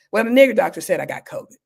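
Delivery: mild mock loud delivery, a bit fast; imitating a rude patient loudly on the phone; loud retold quote. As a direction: hurl it out rudely for the whole room. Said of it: "And he said it very loudly".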